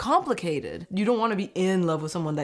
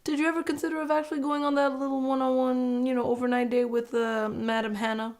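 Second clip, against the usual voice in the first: imitated host; 4 semitones higher than usual. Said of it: "Then Chris chimes in with a".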